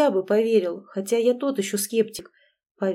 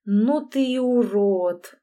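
blurted disgust; slower than usual. A narrator's reading. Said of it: "вырвалось у меня".

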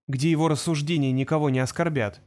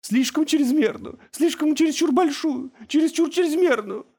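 half-mad journalist wails about the dose; hysterical high wail; 12 semitones higher than usual. A narrator's reading. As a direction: wail it out in a panic. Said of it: "с тихим воем".

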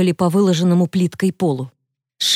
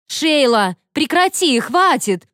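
high urgent pleading; begging friend, high and urgent; 8 semitones higher, slower than usual. A narrator's reading. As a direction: beg her to stop. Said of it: "упрашивала Эшли".

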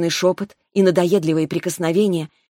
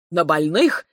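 louder, rough growled rebuke; a dragon growling at the foolish patient; growled anger; 4 dB louder than usual. A narrator's reading. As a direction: growl it at her in fury. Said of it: "прорычал Ревел".

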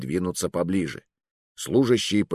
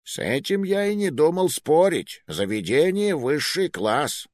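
venomous sarcasm; 6 semitones higher than usual. Acted. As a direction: sneer the compliment. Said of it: "ядовитый смешок Джузеппе".

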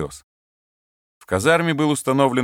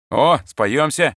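slow, loud, delighted; pleased exclamation; 6 semitones higher, 5 dB louder, much slower than usual. Acted. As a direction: relish the good news slowly. Sergeant pleased with partner. (довольное восклицание)

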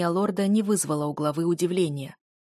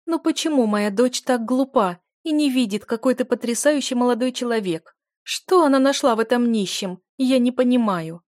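higher, louder, crying despair; tearful lament; 5 semitones higher, 6 dB louder than usual. A narrator's reading. Duchess crying to Eliot about her daughter, tearful lament. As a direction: weep out the complaint. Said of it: "Слёзы ручьём текли из глаз".

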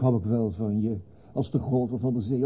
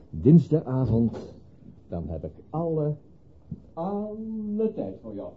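slow sweet promise; 4 semitones higher, slower than usual. Acted. George sweet-talks lover goodbye.

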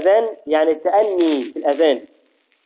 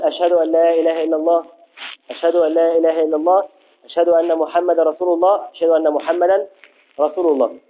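raised voice. Shown as a demonstration. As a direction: lift the voice as in the call to prayer. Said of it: "ويرفع صوته بها".

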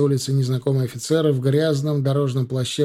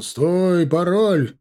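sentry calls out loudly and higher; guard halting riders in the dusk, shouting; 6 semitones higher, 6 dB louder, much slower than usual. A narrator's reading. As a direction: bark the challenge. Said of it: "крикнул караульный фурьер".

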